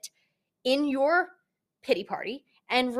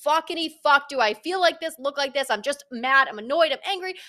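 louder, higher exasperated rant; venting frustration; 4 semitones higher, 5 dB louder than usual. Retold or imitated. Pity party vent to boyfriend, louder and higher. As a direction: let the frustration pour out. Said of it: "have that frustration".

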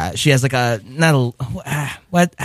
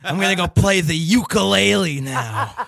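Gomer Pyle. Pretend. Playing D'Onofrio as Gomer in scene.

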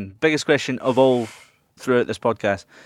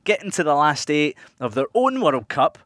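show host read. Acted. Host reads segment intro.

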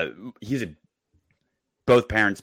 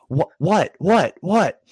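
put-on excited kid; 11 semitones higher, 5 dB louder, slower than usual. Eager four-year-old rushing over.

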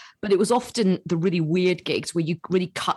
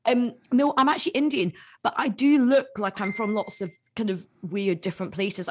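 high, sing-song correction; politely correcting a confused politician, lightly; mock patient reply; 6 semitones higher than usual. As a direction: explain kindly, half amused. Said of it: "I was like".

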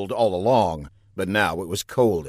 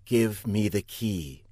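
menacing demand; 5 dB quieter, slower than usual. Acted. Marcia voiced, demanding key.

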